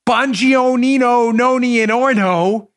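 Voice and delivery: "Bongionino, Noni, and Orno" said slowly as garbled Italian-sounding names; mock mispronunciation. Host mocking how people garble his surname, said slowly. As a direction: drag out "Bongionino" like a mangled surname. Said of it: "His last name wasn't like".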